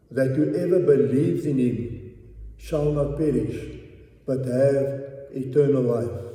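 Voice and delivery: slow, weighty Bible reading to the congregation; scripture reading. Acted. Preacher reading John three to his church, slow and solemn. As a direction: lay each verse down deliberately.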